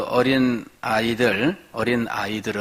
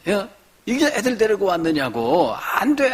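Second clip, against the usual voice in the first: much higher, rising mock rebuke; disciples scolding; 8 semitones higher than usual. Disciples rebuking parents at the door, high mock scolding. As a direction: shoo them off, climbing sharply on 안 돼. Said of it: "제자들이 꾸짖은 거예요".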